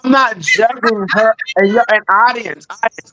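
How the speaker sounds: choppy, underwater-sounding audio; breaking up over a bad connection; glitching audio. Real, not acted. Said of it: "your audio is choppy a little bit".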